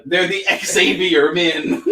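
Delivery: put-on slow laughing southern accent; Southern drawl on "Xavier men". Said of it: "my southern accent really came out on that".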